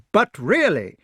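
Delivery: high, loud interjection. A narrator's reading. Knight up a tree to the ranting attacker, protesting loudly. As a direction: try to break into the rant. Calls down an objection.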